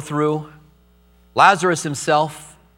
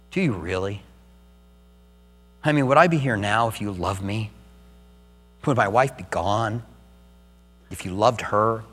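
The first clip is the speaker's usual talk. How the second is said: grieving plea to God; 6 semitones lower, 5 dB quieter than usual. Retold or imitated. Pastor's grieving question to God.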